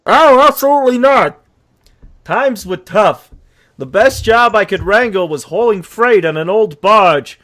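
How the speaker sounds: narrating horse, lightly voiced; storytelling horse. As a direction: tell your sad tale as a horse. Horse narrates his tale.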